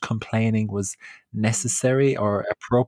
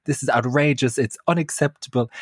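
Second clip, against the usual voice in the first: mock outrage; 5 semitones higher than usual. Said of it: "every single word that I had heard".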